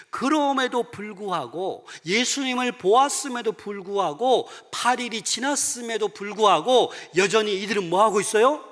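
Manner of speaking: loud, high-pitched, emphatic sermon delivery; forceful preaching. Real, not acted. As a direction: drive each point home from the pulpit.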